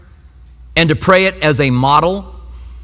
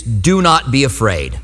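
gentle command; 6 semitones lower, slower than usual. Acted. Quoting Bible's command.

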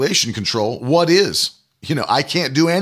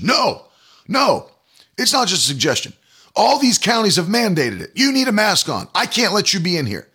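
higher, pushy imitation of the manager; mock store manager; 5 semitones higher than usual. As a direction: voice the manager higher and demanding, mocking him. Manager insists on mask.

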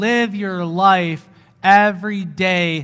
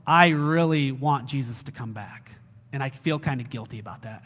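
lower, sinking to a soft admission; guilty confession; 5 semitones lower, 4 dB quieter than usual. Retold or imitated. Christians admitting they want Jesus back, mildly guilty. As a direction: imitate a sheepish confession, voice dropping. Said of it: "sometimes they feel guilty about that".

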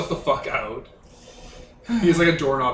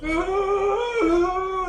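long, high held wail; fleeing wail. Acted. Player voicing a man running off, high wail. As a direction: wail in one drawn-out high note. Character flees screaming into a door.

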